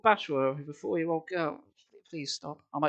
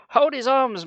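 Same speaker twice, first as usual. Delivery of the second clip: ordering; 7 semitones higher, 7 dB louder, slower than usual. Retold or imitated. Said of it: "Mona ordered".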